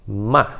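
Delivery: "Ma" quick and dry, falling fast; abrupt downward "Ma"; strong falling tone. Shown as a demonstration. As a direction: hit "Ma" hard and cut it short. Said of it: "ele é muito rápido".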